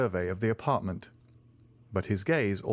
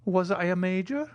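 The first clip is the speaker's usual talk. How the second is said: put-on higher, hesitant old major asking; timid old soldier; 11 semitones higher, 3 dB louder than usual. A narrator's reading. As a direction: ask it shyly, unsure of yourself. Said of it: "timidly asked the old soldier".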